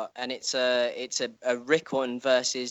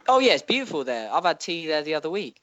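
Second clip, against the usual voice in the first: higher, prim servant voice; butler voice; 5 semitones higher, 3 dB louder than usual. Pretend. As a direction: play a fussy butler. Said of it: "do a Skagos butler voice".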